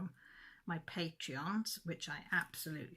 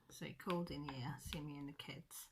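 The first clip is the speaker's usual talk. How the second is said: breathy unvoiced whisper, much softer; 3 semitones lower, 8 dB quieter than usual. Real, not acted. Telling viewers about Dad's visit, whispered. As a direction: drop to a hushed whisper. Repeats line, now whispered.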